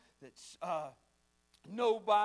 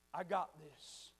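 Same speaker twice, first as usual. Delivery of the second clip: slow, soft, lower voice; quiet reassurance; 7 semitones lower, 7 dB quieter, slower than usual. Acted. God coming by to a crying man, quiet reassurance. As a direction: drop down and reassure gently. God's calm answer to him.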